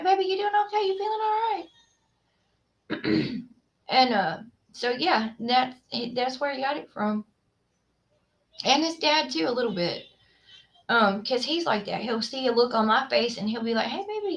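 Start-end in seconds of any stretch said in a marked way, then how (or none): 0.0-3.4 higher-pitched, gently asking voice; imitated sweet, concerned question; concerned check-in. Mimics checking on her baby. 13.9-14.3 soft, high, affectionate greeting; quiet sweet-talk, pitched up; tender check-in. Retold or imitated. Quotes him checking on her.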